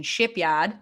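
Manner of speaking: Shipyard with a dropped r, Maine style, "Shipyahd"; Maine accent. Shown as a demonstration. Sharing her winter beer, says its name in Maine accent. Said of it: "I'll say it in the appropriate pronunciation".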